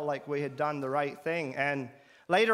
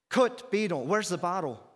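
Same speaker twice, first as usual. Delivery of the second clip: frantic; 3 semitones higher than usual. Retold or imitated. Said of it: "talking in a frantic tone of voice".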